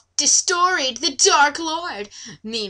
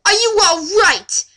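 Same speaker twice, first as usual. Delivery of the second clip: mock concerned hero; 7 semitones higher, 5 dB louder than usual. Legolas asks Laura.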